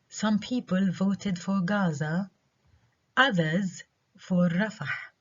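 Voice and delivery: some and Rafah stressed, slow read; slowly, leaning on some and Rafah; contrastive stress. Shown as a demonstration. Teacher demonstrating contrast stress on an example. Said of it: "others في الجملة هذه عليها stress".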